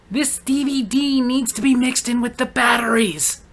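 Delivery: lightly voiced stubborn shopper; mock their pig-headed logic; stubborn customer mock. Cashier mocks a customer who mixes items, light stubborn voice. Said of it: "in your mind, you're like".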